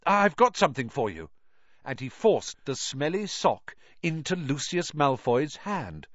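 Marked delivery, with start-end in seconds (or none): 0.0-1.3 quick and out of breath; rushed, still winded; breathless. Acted. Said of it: "he gasped".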